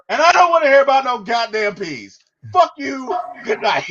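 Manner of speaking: from even to loud rant, rushing the goddamn peas; building fury. Retold or imitated. Harper blowing up at Jordan: building loud rant. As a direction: boil over into a tirade. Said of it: "She says".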